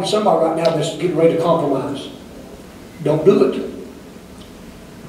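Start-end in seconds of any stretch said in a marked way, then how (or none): 3.0-5.1 very slow hushed warning, almost without voice; whispered plea. Real, not acted. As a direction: breathe it to one listener, slowly.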